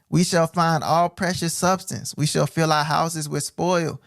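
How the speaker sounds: slow, solemn reading; measured preacher's reading; scripture reading. Acted. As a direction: read the verse slowly and deliberately.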